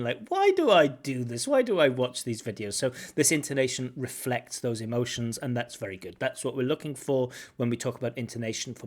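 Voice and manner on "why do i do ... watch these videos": louder, exasperated self-reproach; hammed-up frustration at oneself; mock frustration. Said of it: "Almost like this frustration".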